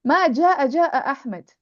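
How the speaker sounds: جاء doubled with a lift in pitch; emphasis on جاء. Shown as a demonstration. Teacher shows how to emphasize the verb, stressing doubled جاء. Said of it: "I can emphasize the verb".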